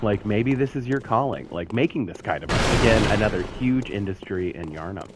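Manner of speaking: upbeat real estate agent pitch; realtor voice. Acted. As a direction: sell the neighborhood like a realtor. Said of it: "the realtor voice".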